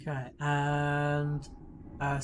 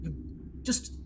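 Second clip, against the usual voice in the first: impatient snapping. Acted. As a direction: bark move at her impatiently. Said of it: "Horgus is like".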